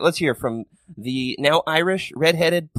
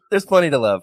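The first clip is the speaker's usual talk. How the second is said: overplayed, a bit louder gushing; hammed-up enthusiasm; 2 semitones higher, 4 dB louder than usual. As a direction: ham it up like a cheesy host. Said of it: "I'm just hamming it up a little bit".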